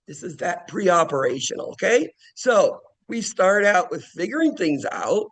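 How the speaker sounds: usual speaking voice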